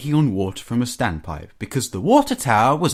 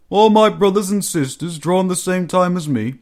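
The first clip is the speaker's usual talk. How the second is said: lightly voiced engine, rising in dismay then sinking; shocked, then subdued; dismayed engine Gordon; 7 semitones higher, 3 dB louder than usual. A narrator's reading. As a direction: start high in disbelief, drop to grief.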